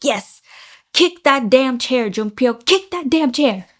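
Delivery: loud hushed cheering, whisper-yelled; whisper yelling. Real, not acted. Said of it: "I am whisper yelling".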